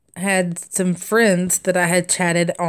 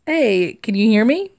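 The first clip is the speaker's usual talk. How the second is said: put-on Southern accent; 3 semitones higher than usual. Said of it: "one sentence".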